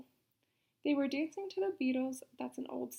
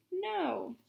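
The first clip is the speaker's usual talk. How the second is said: shout; 5 semitones higher than usual. Acted. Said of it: "they shouted at me".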